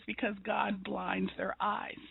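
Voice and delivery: calm, soft and slow; very calmly. Retold or imitated. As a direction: say it gently, unhurried. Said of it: "he just said very calmly".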